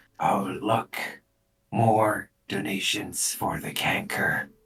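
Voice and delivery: hushed, skin-crawling, creepy whisper. Narrating a scene, voicing an unseen voice: hushed, skin-crawling voice. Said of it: "a voice that really makes your skin crawl ... kind of hushed".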